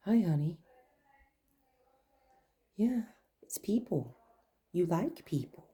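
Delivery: soft whisper, reassuring; whisper to dog. Real, not acted. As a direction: breathe it gently to the nervous dog.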